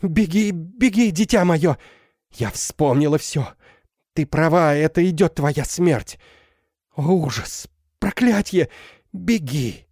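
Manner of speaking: high, urgent shrieking; desperate cry. Acted. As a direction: scream at her daughter to flee. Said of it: "с отчаянным воплем". (отчаянный крик, высоко)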